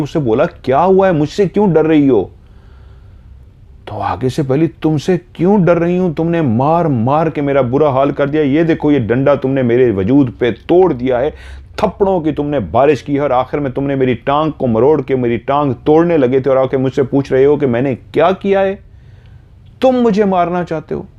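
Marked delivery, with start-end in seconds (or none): 0.5-2.3 high-pitched, bewildered husband; acted disbelief, demanding to know why; baffled questioning. Baffled husband confronts frightened wife. 4.4-21.1 high-pitched, indignant acted outburst; wife hurling accusations at her husband; aggrieved accusation.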